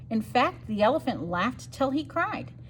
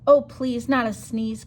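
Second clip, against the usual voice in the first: crying out; 5 dB louder than usual. Acted. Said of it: "cried the bear".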